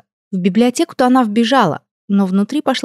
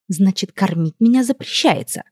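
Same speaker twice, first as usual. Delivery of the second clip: through gritted teeth. Acted. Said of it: "спросила сквозь зубы".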